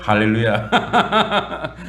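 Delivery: drawn-out amused hallelujah, very slow; real chuckling hallelujah; laughing hallelujah. Real, not acted. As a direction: laugh it out in delight. Answering congregation's blessing.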